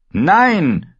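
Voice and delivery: high, loud angry refusal; furious shout. A narrator's reading. Knight defies the queen before the guests, furious shout. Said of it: "Lancel war so wütend".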